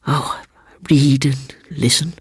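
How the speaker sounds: breathy whisper. A narrator's reading. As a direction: let the words fall to a whisper. Seaton whispering.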